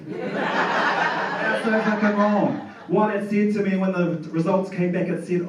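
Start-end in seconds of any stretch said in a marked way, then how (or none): 0.1-2.6 slow, laughing repeat of "so fucking wrong" with "so" held long; laughing, drawn out. Real, not acted. Comic laughing at the audience over ancestry results, slow and drawn out. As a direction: stretch "so" out through a laugh.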